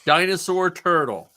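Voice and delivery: slow, drawn-out winner reveal; winner announcement. Real, not acted. Host announcing the winning creature to listeners, slow reveal. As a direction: draw out each part of the announcement.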